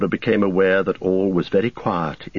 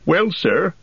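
much higher, hesitant servant voice; dithering Sam; 11 semitones higher than usual. A narrator's reading. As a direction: hem and haw before answering. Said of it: "said Sam, dithering".

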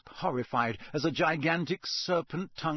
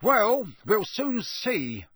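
growled; 9 semitones higher, 5 dB louder, much slower than usual. A narrator's reading. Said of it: "growled Mister Diggory".

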